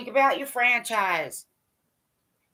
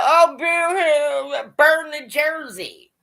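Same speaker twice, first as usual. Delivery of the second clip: mock whiny fan; 3 semitones higher, 4 dB louder, much slower than usual. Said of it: "Nobody should be talking about".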